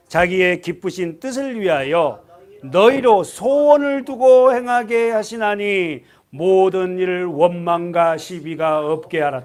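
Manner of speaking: slow, loud reading of the verse in unison; loud scripture reading. Shown as a demonstration. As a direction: proclaim the verse slowly and strongly. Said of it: "끝까지 십사 절까지 읽습니다". (큰 소리로 천천히 성경 낭독)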